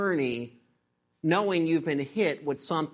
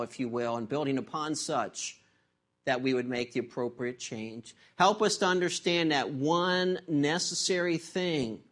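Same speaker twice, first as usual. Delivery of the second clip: pastor's prayer; 3 semitones lower than usual. Acted. Leads the prayer.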